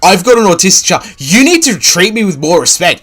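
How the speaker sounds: hammed-up imitation of a self-pitying dad; sneering parody of the streamer's complaint; mocking the streamer. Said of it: "Imagine having an autistic child and actually going".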